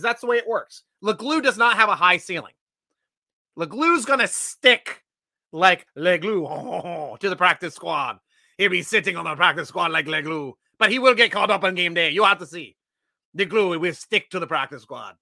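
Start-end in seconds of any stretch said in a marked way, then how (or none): 3.6-15.2 put-on French-Canadian accent. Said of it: "That is my French-Canadian accent".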